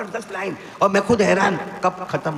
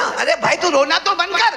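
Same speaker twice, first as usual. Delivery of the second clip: higher, rising plea to stop crying; exasperated plea; 10 semitones higher than usual. Retold or imitated. Preacher urging a crying young man to stop weeping, mildly exasperated. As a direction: urge him to stop crying, mock exasperated.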